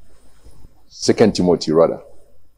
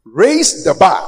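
called out; 6 semitones higher, slower than usual. Acted. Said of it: "repeated exhortation".

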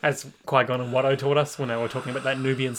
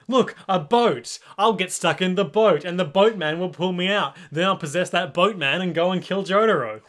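higher, eager villain plotting aloud; hammed-up delight at a new plan; mock hopeful scheming; 4 semitones higher, 3 dB louder than usual. Sinking stand spots a boat to save himself, mock hopeful scheming.

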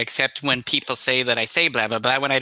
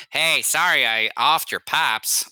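mock apology; 4 semitones higher than usual. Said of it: "is a way of telling him".

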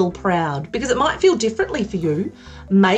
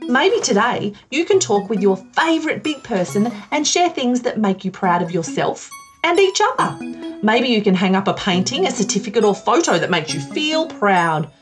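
bright sing-song presenter voice; broad singsong kids theatre. Acted. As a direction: talk to little kids on TV. Kids show host address.

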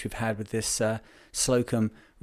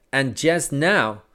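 slow, drawn-out raised call; 3 semitones higher, 3 dB louder, much slower than usual. Acted. Harbour deputy calling to the shore, slow raised voice. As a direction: call it out so the whole shore hears. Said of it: "raising his voice so that all the people along shore could hear him".

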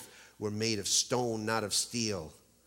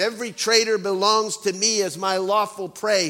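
sneering; 8 semitones higher, 7 dB louder than usual. Acted. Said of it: "she sneers".

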